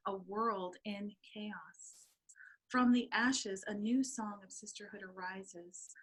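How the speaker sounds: earnest spoken-word poem; poem reading. Acted. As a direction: read it like a sacred poem. Reads her poem aloud.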